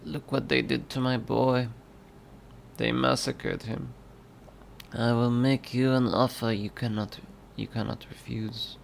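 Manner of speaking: lightly voiced mafia boss; a hint of an old-movie Godfather voice; measured, understated Godfather impression; Godfather accent. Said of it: "do a Godfather accent".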